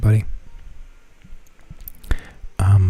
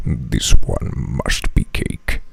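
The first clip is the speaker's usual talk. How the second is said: much lower, very slow solemn rumble; Kratos voice; 9 semitones lower, much slower than usual. Retold or imitated. Kratos judging the cake in the TikTok, deep and slow. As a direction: intone it gravely like a grim god. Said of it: "He's like".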